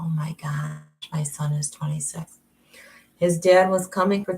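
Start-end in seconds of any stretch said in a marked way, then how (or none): 0.0-2.4 whispered, a touch lower; half to herself, in disbelief; hushed aside to herself; stunned whisper. Real, not acted. Shocked at son's age.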